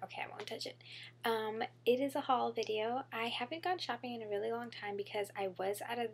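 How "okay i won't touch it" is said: soft aside under her breath; whispering. Real, not acted. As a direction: whisper it to yourself. Fixing hair mid-sentence.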